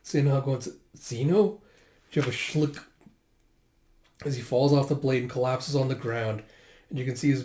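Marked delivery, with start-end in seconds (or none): 0.6-1.6 slow, halting question; shocked stammer. Acted. Sinha sees Zeno speared, shocked stammer. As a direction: falter on the name, rising in disbelief. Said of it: "staring at him in shock".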